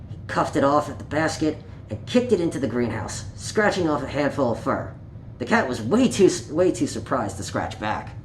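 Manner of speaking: put-on reading a picture book aloud to children; gentle storytime read, page by page; story narration. A narrator's reading. Storyteller reading Peter Rabbit to young listeners, gently.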